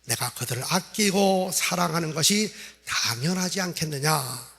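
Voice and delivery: God/character; God's voice. Acted. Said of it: "그때 하나님이 이렇게 말씀합니다".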